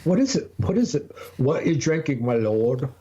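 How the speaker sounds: high, playful put-on questioning; teasing a friend over his drink in a put-on voice; mock old-timer voice. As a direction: quiz him in a hammed-up character voice.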